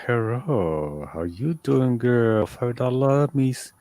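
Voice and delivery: lightly hammed-up sleazy phone voice; sleazy phone operator pitch, only lightly voiced; mock phone sex operator. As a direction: play a cheesy phone line hustler. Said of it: "It'd be like".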